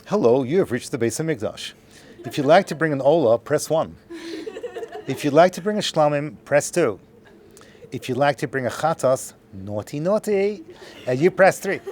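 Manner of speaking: mock recorded phone menu voice; answering machine recording. Beis HaMikdash hotline greeting callers, mock recorded menu voice. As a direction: play a canned hotline message. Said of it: "answering machine that goes like this".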